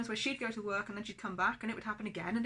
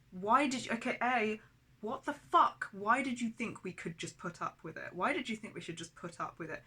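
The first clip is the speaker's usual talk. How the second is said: heated demand; 3 semitones higher, 4 dB louder than usual. Retold or imitated. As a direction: press her hard for an answer. Repeating confrontation with mum.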